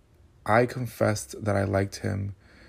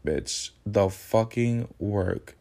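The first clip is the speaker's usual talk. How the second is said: normal talking voice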